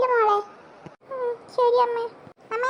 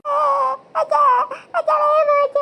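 pained wailing; 2 semitones higher, 3 dB louder than usual. Acted. Child begging father to go faster, wailing in pain. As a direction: call out to father through the pain.

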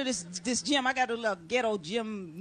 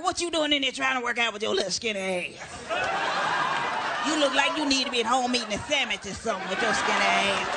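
mean mocking women; 2 semitones lower than usual. Big women at the gym taunting a skinny newcomer, mock-mean. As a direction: taunt her like a gym bully. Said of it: "they got that all mean".

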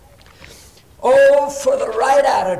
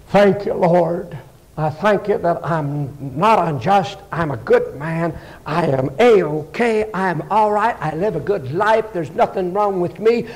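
self-satisfied Pharisee; 4 semitones lower than usual. Acted. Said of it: "The Pharisee does what?".

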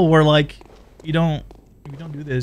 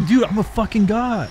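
higher, gloating self-praise; cocky boast; 5 semitones higher than usual. Retold or imitated. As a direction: crow about your own skill. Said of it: "I was just like".

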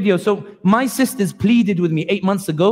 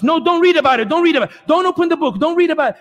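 pleading warning; 8 semitones higher, faster than usual. Retold or imitated. Israeli voice in the skit urging the newcomer not to read, high and pleading. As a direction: beg them not to open the book. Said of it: "And I'll try to imitate it here".

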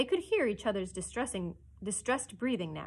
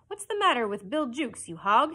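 louder, higher, a touch of anger; mild hiss; 4 semitones higher, 8 dB louder than usual. A narrator's reading. Hook towers over Cecco, mildly venomous. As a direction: demand it with some venom. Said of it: "hissed Hook".

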